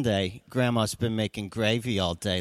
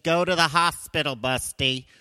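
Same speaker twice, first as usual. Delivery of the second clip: instructing wife; 5 semitones higher, 4 dB louder than usual. Retold or imitated. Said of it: "And she said".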